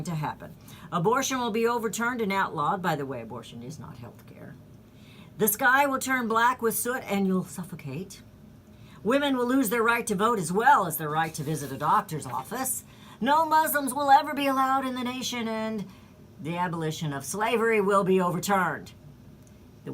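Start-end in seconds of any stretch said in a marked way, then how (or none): 0.9-2.8 mildly raised mock-doom prediction; imitated doomsaying, pitched up; mock alarm. Mimicking the left's dire predictions. 5.4-18.9 raised, hammed-up doomsaying; imitated alarmist, forceful and insistent; mock alarm. Mimicking the left's dire predictions.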